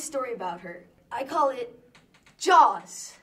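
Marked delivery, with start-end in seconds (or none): 2.4-3.1 dramatic title. Acted.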